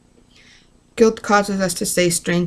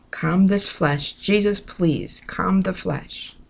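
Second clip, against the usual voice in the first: prayer; slower than usual. Real, not acted. Slow prayer to Jesus.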